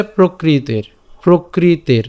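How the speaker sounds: "প্রকৃতের" as prokriter, the r closing the last syllable; pronunciation demo. Shown as a demonstration. Teacher showing how "প্রকৃতের" sounds, a clear model ending in -ter. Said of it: "এর উচ্চারণটা কেমন হচ্ছে?".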